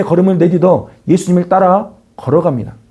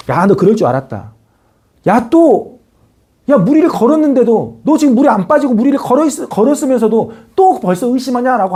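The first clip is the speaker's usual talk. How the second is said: sneering "I knew it" tone, pitched higher toward the end; mock mocking scold; 4 semitones higher than usual. Preacher imagining Jesus taunting Peter, mock scolding. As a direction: jeer at a sinking disciple, half-playfully. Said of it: "이렇게 예수님 보면서".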